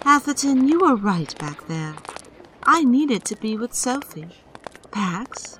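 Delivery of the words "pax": soft unvoiced whisper. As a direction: breathe it gently. Quiet reconciliation.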